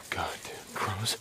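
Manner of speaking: slow hushed whisper; whispered curse. Acted. Deacon whispering about the crows while hiding. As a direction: grumble it without a sound.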